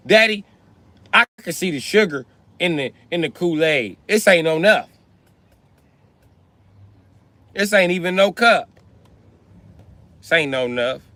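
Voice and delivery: put-on tattle like a kid who got shorted; daughter complaining. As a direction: daughter fussing to daddy about the juice. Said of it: "They come tell me and be like".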